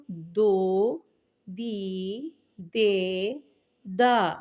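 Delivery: بو، بی، بے، با each blended and held; syllable blending. Shown as a demonstration. Teacher blending ب with the vowels for pupils. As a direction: sound ب with each vowel in turn. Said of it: "دال کو کریں گے".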